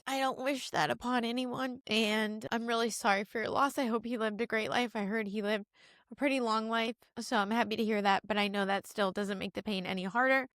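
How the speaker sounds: tender and sincere after tearing up; sincere condolence. Real, not acted. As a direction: offer condolences gently. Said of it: "I'm being really sincere in this moment".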